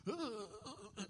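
imitated frightened stutter of grunts; mock shaking. Preacher mimics the quarterback collapsing at the line, mock panic. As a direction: play-act a trembling panic noise. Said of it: "he's always shaking".

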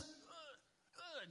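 half-hearted, muffled imitation of screaming; mock tantrum scream. Preacher imitates a receiver's sideline tantrum, mock scream. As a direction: act out a screaming fit without full volume. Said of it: "just screaming".

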